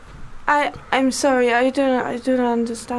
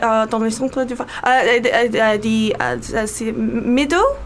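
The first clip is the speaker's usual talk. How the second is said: fumbling French; 2 semitones lower, slower than usual. Retold or imitated. Fake French passenger explaining where Orléans is, in halting French. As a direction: stumble through schoolgirl French. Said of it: "threw in a bit of French".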